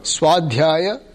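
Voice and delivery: Swadhyaya spoken syllable by syllable, rising; Swadhyaya, slow and clearly separated; staccato. Shown as a demonstration. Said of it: "you repeat after me one word at a time".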